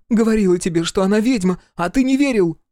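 high, loud accusation; outcry. A narrator's reading. Daughter accuses her stepmother to father, crying out. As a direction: cry it out high and indignant. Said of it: "вдруг выкрикнула Василиса".

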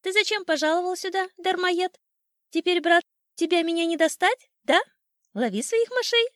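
high, loud, taunting bird voice; shouting old sparrow. A narrator's reading. Sparrow taunting the cat from safety, high loud shouting. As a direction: jeer up high at an enemy who can't reach you. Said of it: "кричал старый воробей, завидев своего главного врага".

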